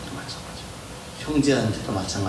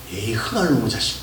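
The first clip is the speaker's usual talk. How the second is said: playful blessing-curse; 3 dB louder than usual. Shown as a demonstration. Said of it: "이렇게 해야 돼요".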